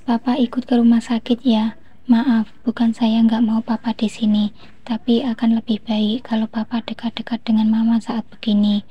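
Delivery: gentle coaxing. Acted. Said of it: "bujukku beralasan".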